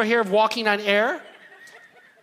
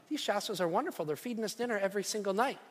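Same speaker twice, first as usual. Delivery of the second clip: raccoon voice; 7 dB quieter, faster than usual. Pretend. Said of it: "I could hear the raccoons saying".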